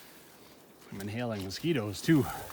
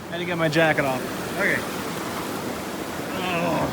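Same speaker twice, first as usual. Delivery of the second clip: gasping from the cold water; shivering, breathless in cold water; in ice cold water; 8 semitones higher, 3 dB louder than usual. Real, not acted. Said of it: "it's so cold".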